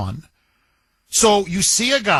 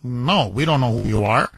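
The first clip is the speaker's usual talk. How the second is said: flat dismissive guards; 8 semitones lower than usual. Retold or imitated. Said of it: "They're like".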